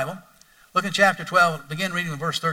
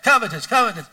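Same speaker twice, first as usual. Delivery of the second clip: said fast; 4 semitones higher, 3 dB louder than usual. Shown as a demonstration. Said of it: "Say it twice for fast".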